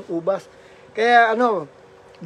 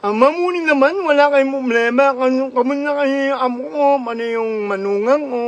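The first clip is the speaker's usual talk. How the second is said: slurred cleft-palate speech, lightly raised; mock Ngongo voice; 3 semitones higher than usual. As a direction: imitate the Ngongo child calling home, slurring. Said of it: "yung kwento ni Ngongo".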